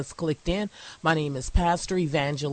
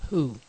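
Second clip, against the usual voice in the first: "who" set apart with a falling tone; stressed, isolated "who"; emphasis on WHO. Shown as a demonstration. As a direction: land the single word "who" after a short pause. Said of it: "I'm gonna place emphasis on the word".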